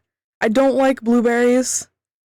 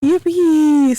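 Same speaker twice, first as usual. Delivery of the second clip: high, louder cheer; gleeful yippee; 5 semitones higher, 4 dB louder than usual. Real, not acted. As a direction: shout it with glee.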